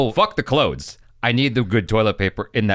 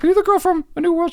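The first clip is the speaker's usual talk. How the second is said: high, fast excited question; retold starstruck question; 4 dB louder, faster than usual. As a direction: blurt it out like a thrilled fan, pitched way up. Retells excitedly meeting an actress.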